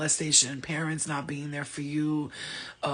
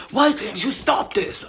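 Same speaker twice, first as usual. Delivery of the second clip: mock harsh self-judging; 5 semitones higher, 8 dB louder, slower than usual. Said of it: "Instead of judging myself, going".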